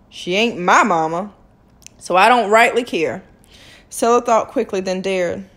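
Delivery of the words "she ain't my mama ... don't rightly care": callous doctor. A narrator's reading.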